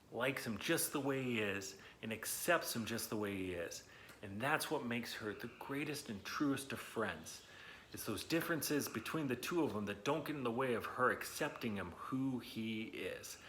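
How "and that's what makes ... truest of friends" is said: whispered. Real, not acted. Softly stressing the friendship.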